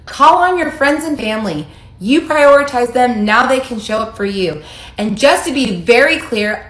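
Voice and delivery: high, loud, scornful reading of his message; mocking the ex's text. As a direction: read his words back with sarcastic contempt. Mocking ex's cruel text aloud.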